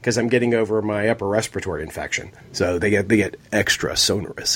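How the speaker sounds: husky sick voice, low; raspy from a chest cold. Real, not acted. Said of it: "my sexy sick voice".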